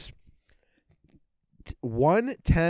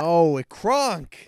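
villain voice; 6 semitones higher, 5 dB louder, much slower than usual. Acted. Acted Yzma quote.

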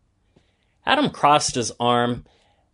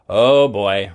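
put-on "Oh boy" echoed lower, a touch louder; 4 semitones lower, 4 dB louder than usual. Adam echoing David about the closet, "Oh boy" lower. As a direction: echo "Oh boy" lower, like the second brother. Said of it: "repeated Adam".

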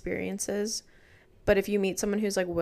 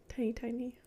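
teasing whisper; 3 semitones higher, 7 dB quieter than usual. Real, not acted. Teasing aside about friend's height.

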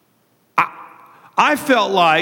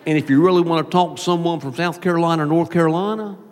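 Southern Carolina lilt through the nose; Carolina accent. Shown as a demonstration. Pastor imitating Carolina talkers, Southern accent with high endings. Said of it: "they kinda go up and high".

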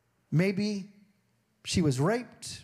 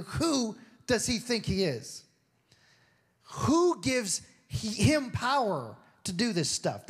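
indignant; 4 semitones higher, slower than usual. Retold or imitated. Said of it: "they were indignant".

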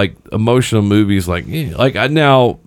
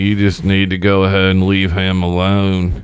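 lightly imitated film accent; a hint of the actor's movie accent; mock action-hero accent; Nicolas Cage accent. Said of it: "He just talks like this".

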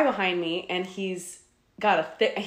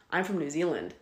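deadpan; 6 dB quieter than usual. Retold or imitated. Man insisting to a doubter where he's from, deadpan. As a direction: state it dead serious, falling at the end. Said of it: "looks me dead in the face".

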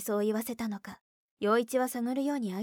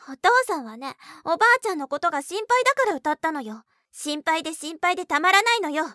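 loud, high heated retort; angry; 7 semitones higher, 10 dB louder than usual. Acted. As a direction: shout her down in anger. Sisters quarrel over singing. (声を張り上げて怒る)

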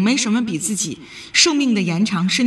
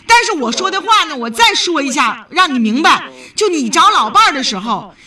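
raised voice; 4 semitones higher than usual. Real, not acted. Radio host raising her voice at the elderly caller. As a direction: drive the point home, nearly shouting. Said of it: "你别喊".

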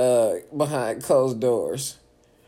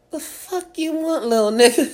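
retold challenge; 8 dB louder than usual. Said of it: "I said".

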